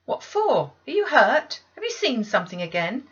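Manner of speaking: high, loud questions; urgent demand. Acted. Maid demanding answers from the frightened child, loud. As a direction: press the child hard for an answer. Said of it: "demanded Bessie".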